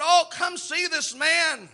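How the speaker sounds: slow, awed invitation to come see; excited Philip, drawn out. Retold or imitated.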